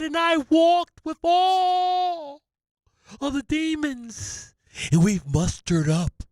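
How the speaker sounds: prophesy like a theatrical soothsayer; Barstradamus prophet voice. Acted. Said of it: "It's Barstradamus".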